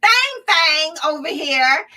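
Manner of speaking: laughing while calling out the name; half-shouted through laughter. Real, not acted. Host mocking a congresswoman's nickname to viewers, laughing.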